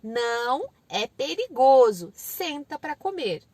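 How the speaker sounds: slow, stressed phrases with gaps; firm, deliberate parent; short firm command. Shown as a demonstration. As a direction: lay down the rule for a toddler. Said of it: "não adianta você ficar argumentando. Fala".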